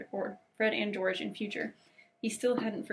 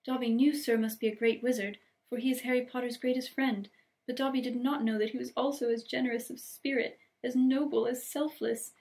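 admiring elf; 3 semitones higher than usual. Acted. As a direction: pile on the praise like an awed house-elf. Voices Dobby.

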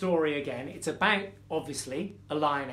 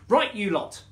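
loud, raised call to attention; growling lioness; 4 semitones higher, 6 dB louder than usual. Acted. Lioness mother addressing her cubs, mild loud growl. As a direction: call the youngsters sharply to order. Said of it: "growled Simba".

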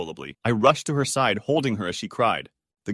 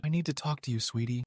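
hushed, soft confidential voice; whispered; 7 dB quieter than usual. A narrator's reading. Mom pulling her daughter aside before the wedding, whispered. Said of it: "my mom turned to me and whispered".

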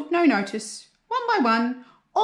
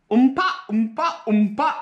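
sad tuba wail; 3 semitones higher, 3 dB louder than usual. A narrator's reading. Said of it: "wailed Emily's tuba sadly".

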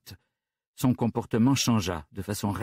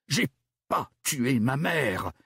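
yelled; 4 semitones higher, slower than usual. Acted. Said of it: "hurla-t-elle".

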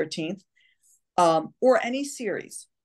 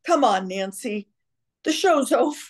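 imitated husband; 5 semitones higher than usual. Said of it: "father would come out".

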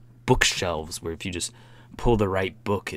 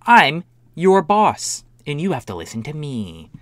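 entitled woman impression; 6 semitones higher, 5 dB louder than usual. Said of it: "When people are like".

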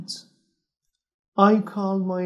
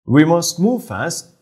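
Holmes; 2 semitones lower, 8 dB louder than usual. A narrator's reading. Narrator voices Holmes.

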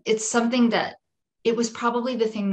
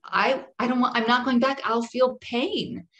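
higher-pitched pleading protest, half-screamed; retold scream; 5 semitones higher than usual. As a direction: mildly re-enact a screamed refusal. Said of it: "and I screamed".

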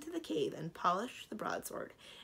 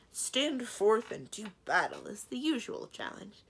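slow, raised, declaiming tone; louder, measured authority; authoritative; 5 semitones higher, 6 dB louder, slower than usual. A narrator's reading. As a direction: proclaim it like a formal challenge. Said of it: "said with authority".

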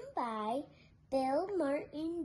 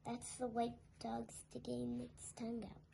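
whispered aside; 8 dB quieter than usual. Real, not acted. Aside while reading to children.

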